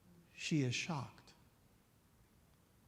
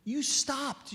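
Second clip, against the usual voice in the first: high-pitched, amazed thanks; astonished and grateful, pitched way up; shocked gratitude; 9 semitones higher than usual. Acted. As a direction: thank him in high-voiced disbelief. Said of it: "she was shocked".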